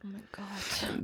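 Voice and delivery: sehr leise, gehaucht, langsam; kaum hörbar. Real, not acted. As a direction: ganz leise vor Angst hauchen. Hornisse direkt über ihr. (sie haucht vor Angst kaum hörbar)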